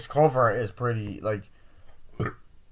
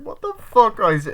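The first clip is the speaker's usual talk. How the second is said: high, loud outburst; hammed-up alarm; mock panicked shout; 12 semitones higher, 10 dB louder, slower than usual. Friends panic, he is missing.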